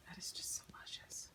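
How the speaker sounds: very soft, hushed awe; barely voiced wonder; admiring whisper. Real, not acted. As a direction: whisper it, savoring the sight.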